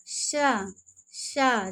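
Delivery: शा drawn out slowly from the palate; palatal sha demo. Shown as a demonstration. Teacher models the palatal शा for the class, slow and deliberate. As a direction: say शा slowly twice with the tongue at the palate. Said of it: "तो इसे".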